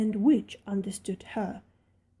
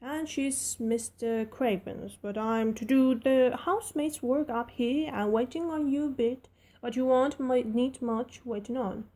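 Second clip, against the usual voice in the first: chatty Yorkshire housemaid, a bit higher; friendly servant girl rattling on; Yorkshire maid Martha; 3 semitones higher than usual. Acted. Martha continues speaking.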